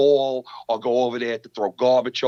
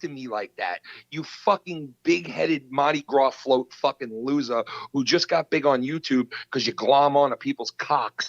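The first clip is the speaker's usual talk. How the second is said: understated contempt, insults piled up; retold ballistic tirade. Podcaster retells cursing out a YouTube rival, ballistic. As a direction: roll out the insults, anger held at talking volume. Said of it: "I went ballistic on that asshole".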